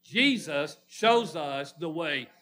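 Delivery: slow, deliberate conviction; like meaning it. Shown as a demonstration. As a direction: lean on each word as a heartfelt declaration. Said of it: "Say that like you mean it".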